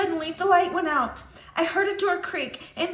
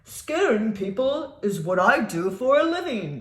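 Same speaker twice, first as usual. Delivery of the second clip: low man voice; 5 semitones lower than usual. Acted. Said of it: "he said".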